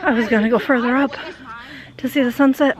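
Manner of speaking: breathless after climbing the dune; panting between words; out of breath. Real, not acted. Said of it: "I'm out of breath".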